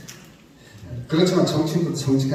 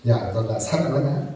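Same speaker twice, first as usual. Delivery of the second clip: Jesus asking gently; 5 semitones lower, 4 dB quieter than usual. Retold or imitated. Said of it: "이렇게 물어봤을 때".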